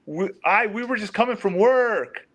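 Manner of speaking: high-pitched imitation of a suspect. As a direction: send the voice up as he did. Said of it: "He does it again".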